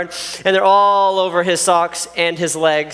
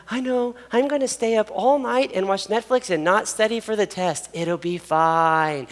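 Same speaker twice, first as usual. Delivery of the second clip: breezy self-talk; 2 semitones higher, 4 dB quieter than usual. Retold or imitated. Student imitated planning a Netflix night, softer and carefree. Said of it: "you decided".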